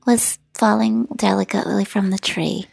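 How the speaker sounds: slow mock-poetic delivery; drawn-out, put-on gentleness; mimicking dreamy talk. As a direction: lightly parody a delicate, dreamy storyteller. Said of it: "I'm definitely not like".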